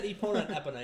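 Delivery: first Epona as ee-POH-nuh, second as EP-uh-nuh; both pronunciations. Shown as a demonstration. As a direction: switch Epona from long "ee-POH" to short "EP-uh". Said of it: "I said Epona and Epona".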